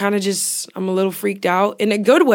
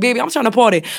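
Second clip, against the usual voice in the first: put-on New Orleans accent; 3 semitones higher, faster than usual. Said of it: "I'm like".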